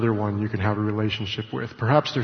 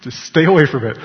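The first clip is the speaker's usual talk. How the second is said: louder, insistent repeat of the warning; mock-stern husband repeating himself louder; firmer warning; 2 semitones higher, 5 dB louder than usual. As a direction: lean in on "Just stay away from it" like a nagging husband.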